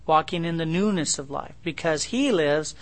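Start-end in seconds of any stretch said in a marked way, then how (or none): 1.6-2.8 solemn reading. Acted. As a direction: proclaim resurrection triumphantly. Proclaiming scripture.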